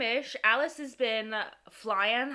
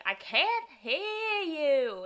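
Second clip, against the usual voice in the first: higher imitation of a complaining mom; mock your mom's raised complaint; 7 semitones higher, slower than usual. Host imitating mom complaining about the podcast, complaining voice. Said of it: "she's always like".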